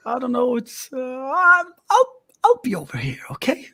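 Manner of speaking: high, hurried, backing away; anxious, trailing off; nervous friend voice. Acted.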